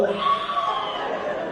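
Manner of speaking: shrill mock ladies' squeal, very high. Women at the club answering the DJ with a high mock squeal.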